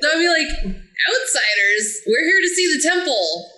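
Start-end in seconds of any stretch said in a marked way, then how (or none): 1.1-3.5 a light put-on Southern accent; mock Southern accent. Player shows her fake Southern accent to the table. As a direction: fake Southern as best she can. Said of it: "in my best faking the Southern".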